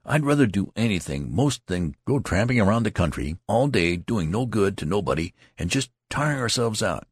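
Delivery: put-on young recruit whining to his comrades; fidgety complaint. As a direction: gripe restlessly about the tramping. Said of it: "still fidgeting".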